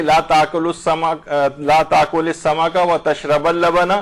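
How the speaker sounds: slow, تشرب with a clipped end; grammar demo. Shown as a demonstration. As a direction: read تشرب اللبن deliberately. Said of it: "ایک ہی وقت میں دونوں چیزیں آپ نہ کھائیں". (آہستہ، تشرب اللبن)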